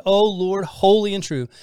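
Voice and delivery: crying out to God. Retold or imitated. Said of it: "crying out to God".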